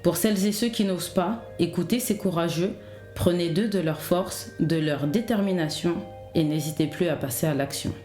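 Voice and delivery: measured, scripted intro narration; podcast intro read. Acted. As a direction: read an encouraging podcast opener in measured phrases.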